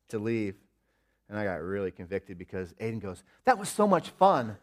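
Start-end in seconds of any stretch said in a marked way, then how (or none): 3.4-4.6 put-on higher, slower, laughing child's delight; happy kid. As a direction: gush like a cheerful little boy. Son happy in car.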